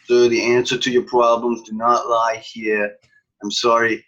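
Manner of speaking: loud, measured clerk's refusal; mock official firmness. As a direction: hold firm as the put-upon clerk. Clerk answers agitated traveler.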